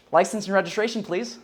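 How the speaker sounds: rising questioning tone; upswing. Shown as a demonstration. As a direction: ask it like a timid cop, voice rising. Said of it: "he's like".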